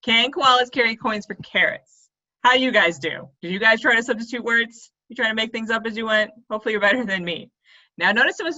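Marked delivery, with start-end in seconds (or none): 0.0-2.1 slow, getting "carrots" right; careful correct take. Shown as a demonstration. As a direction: say it slowly and land "carrots" correctly. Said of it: "but it's carrots".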